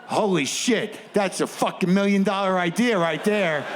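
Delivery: rising excitement over a scam; excited hustlers. Retold or imitated. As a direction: thirties movie gangster glee. Hustlers getting excited over idea.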